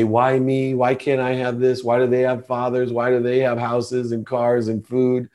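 lightly voiced victim's complaint; playing the victim. Man recalling his envy as a poor child, playing the victim. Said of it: "I was a victim. I would say".

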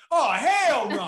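high, slow, laughing hell no; disgusted girlfriend voice. Retold or imitated. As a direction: drag out the refusal in her voice.

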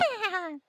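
high little animal moans; small, high wordless squeaks; porcupine ASMR noises. Retold or imitated. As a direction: imitate a porcupine eating. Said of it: "give me a porcupine A S M R".

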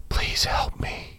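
slow, voiceless whisper; soft whisper. Acted. Ghost whispers into the new resident's ear, soft whisper. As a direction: whisper it softly into their ear. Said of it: "whisper softly in their ear".

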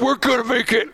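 very high, hammed-up cry of triumph; comic high-pitched rallying cry; mock daredevil cheer. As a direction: squeal it with over-the-top confidence. Acted daredevil reply in ramp scene.

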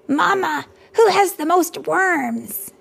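put-on high, eager child voice; high-pitched kid asking his mother; excited boy. A narrator's reading. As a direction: voice the little boy, bright and eager. Child Max asks eagerly.

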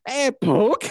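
put-on high, giggling little-kid poke; high giggly mock toddler; laughing toddler voice.

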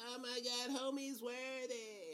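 high, slow astonished gasp; awestruck, stretching it out; amazed. Retold or imitated. Crowd amazed by Captain America.

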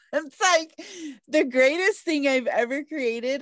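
laughing and beaming with pride; smiling voice. Real, not acted. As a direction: grin through every word. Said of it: "y'all can hear the smile in her voice".

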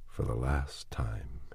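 slow unvoiced whisper; whispered thought. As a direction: barely breathe it in grief. Grieving thought at the grave.

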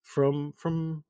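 lightly voiced boss explaining a deal; lilting, theatrical explanation with pointed pauses; Brett, smooth crime boss. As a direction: lay out the terms with casual menace.

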